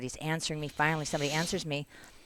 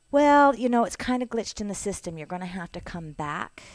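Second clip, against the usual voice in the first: mock official woman; 5 semitones higher, 5 dB louder than usual. Retelling the consulate woman.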